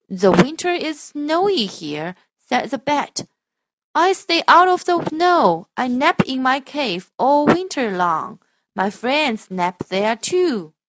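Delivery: lightly voiced high little bat, slow; a hint of a squeaky bat; squeaky clicking bat.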